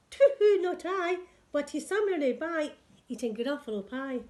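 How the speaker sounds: high, loud owl hoot settling down. Acted. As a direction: hoo it out like an owl. Owl answers the child.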